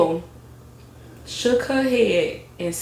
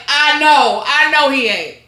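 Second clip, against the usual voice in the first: hopeful denial; 3 semitones higher, 4 dB louder, slower than usual. Retold or imitated. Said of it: "she like".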